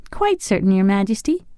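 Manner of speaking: put-on high girlish voice suppressing a giggle; holding back a laugh. A narrator's reading. The girl answering the king while stifling laughter. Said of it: "trying hard not to laugh".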